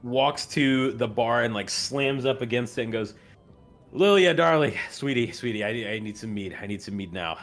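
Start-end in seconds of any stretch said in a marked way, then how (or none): 3.9-7.4 put-on drunk old man. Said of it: "he's already visibly drunk".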